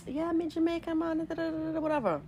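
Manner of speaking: very high mock Jamaican accent; imitated Jamaican accent. Mimicking acquaintance faking it at the salon, mock Jamaican accent. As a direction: put on a high-pitched fake Jamaican accent. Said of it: "she was using the accent".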